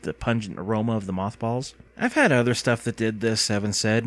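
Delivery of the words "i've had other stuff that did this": understated letdown, barely moved; disappointed. A narrator's reading. Boy unimpressed by glowing slime, mildly disappointed. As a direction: say it evenly, a touch let down. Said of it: "more than a little disappointed".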